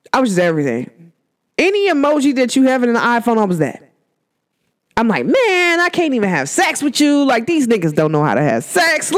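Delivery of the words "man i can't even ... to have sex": acted-out ranting complaint, starting high; retold exasperated venting; going off. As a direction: whine it out as a mock rant. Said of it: "I was going off".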